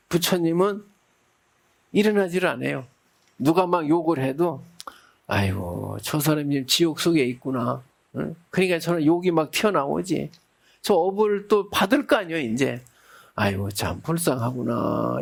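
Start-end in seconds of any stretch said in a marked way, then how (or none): 5.3-15.2 pitying thought. Retold or imitated. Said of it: "이렇게 생각을 한다는 거예요".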